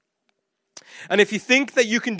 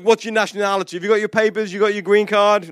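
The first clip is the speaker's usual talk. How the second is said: brisk, casual run of questions; quick mock questioning; faster than usual. Mock official asks Jonah for his papers, quick and casual. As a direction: rattle off an official's routine questions.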